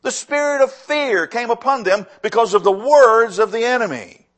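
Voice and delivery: loud, ringing first statement; forceful preaching. Shown as a demonstration. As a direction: proclaim it strongly to the congregation. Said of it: "I'm gonna say that again".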